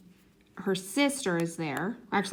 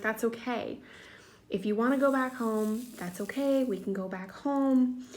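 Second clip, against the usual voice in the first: reassuring parent; 3 semitones higher than usual. Retold or imitated. Parents soothing the crying child.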